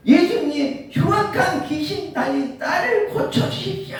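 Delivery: high-pitched desperate plea, shouted; crying out loudly. Acted. Canaanite woman begging Jesus to heal her daughter, crying out high. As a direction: call out loudly over a crowd, pitched high. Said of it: "고래고래 소리를 칩니다".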